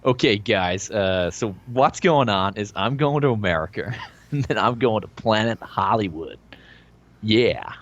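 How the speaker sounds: put-on an Aussie putting on a light American accent; lightly done American accent, laughing. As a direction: slip into a mock American accent with giggles. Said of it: "People wanna hear you do your American accent".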